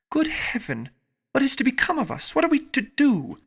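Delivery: high, anguished cry of despair; bitter woeful exclaim. A narrator's reading. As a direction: cry out in bitter woe, pitch rising. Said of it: "would they often exclaim in the bitterness of woe".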